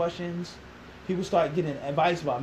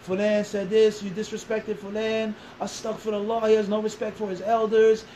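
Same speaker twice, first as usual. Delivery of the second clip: imitating a chorus of accusers; mock accusations; 3 semitones higher than usual. Critics complaining about the new young imam, mock accusations. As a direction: reel off complaints on a raised, insistent note.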